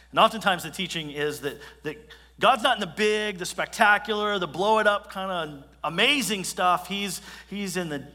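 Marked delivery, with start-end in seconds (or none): 2.4-6.9 louder and higher, building it big; loud emphatic preaching. Acted. Preacher to the congregation, big and loud. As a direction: boom out the spectacular.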